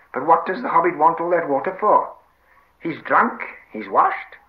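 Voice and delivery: high, loud creature whine; querulous Gollum. Acted. Gollum asks what the water is for, querulous. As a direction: question him as a puzzled Gollum, rising high. Gollum questions Sam's order.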